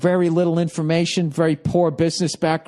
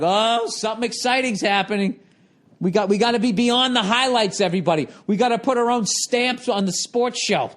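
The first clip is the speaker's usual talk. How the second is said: higher, overexcited sportscaster voice; mock hyped hosts; 8 semitones higher than usual. Mocking late-night sports hosts as overhyped anchors. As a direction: pump it up like hosts shouting over highlights. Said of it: "They're doing that fucking thing".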